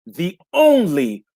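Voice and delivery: drawn-out hype call. Real, not acted. Host introducing the poet to the crowd, drawn-out hype call.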